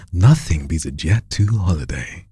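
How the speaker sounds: smooth, melodic, seducing the listener; seductive ad read. Shown as a demonstration. Coach shows trainee how to seduce the audience, smooth seductive read. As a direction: play with the line, go up and down. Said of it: "You're seducing the microphone".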